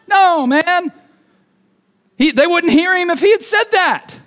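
high, yelled objection; high, emphatic shout of disbelief. Acted. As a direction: call it out over a storm. Objecting over imagined storm noise.

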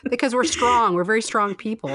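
mock-proud claim, laughing out the words; laughing boast. Real, not acted. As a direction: laugh while boasting about being strong. Joking defiance through laughter.

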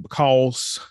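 a light Southern country twang on "because", vowel drawn out as "becawlz"; country accent. Shown as a demonstration. Podcast host hamming up a country accent for listeners. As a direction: say "because" with a mild country drawl. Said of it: "put on my good country accent".

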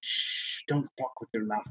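hushed whisper to dying victims; menacing whisper. Acted. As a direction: shush them, then whisper very softly. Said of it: "I'm gonna whisper to them".

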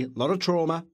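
accidental hint of a famous politician's voice; slightly Trump-like turn on the words; Donald Trump. Real, not acted. Podcaster slipping into Trump while recapping a film, a hint of his voice. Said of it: "I sound like Donald Trump".

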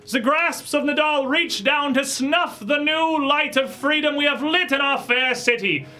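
loud, high, slow proclamation; town crier. Acted. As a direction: cry out the news to the square. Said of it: "a town crier".

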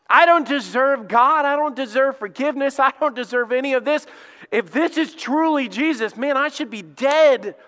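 Saul's anguished thoughts. Acted. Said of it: "Saul is sitting there thinking".

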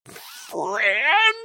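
high, rising monster croak; questioning beast croak; creature's forced croak. A narrator's reading. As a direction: struggle to form a human word. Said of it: "forced a croak out of its cavernous maw".

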